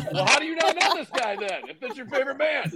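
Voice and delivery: high, squeaky mock disbelief; retold incredulous question. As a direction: push the pitch way up in baffled protest.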